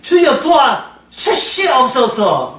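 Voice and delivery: very slow, drawn-out plea to the Lord; a mock-earnest slow prayer; slow pleading prayer. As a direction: stretch each word like a desperate prayer.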